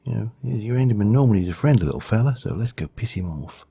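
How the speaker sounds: lightly put-on Australian wildlife presenter; Steve Irwin, bad Australian accent. Gamer mock-presenting an Enderman as a friendly creature, bad Australian accent. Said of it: "my Australian accent is terrible".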